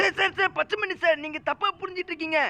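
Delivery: mock-panicked excuses; flustered denial. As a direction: play a caught underling talking his way out. Flustered denial to the suspicious sir.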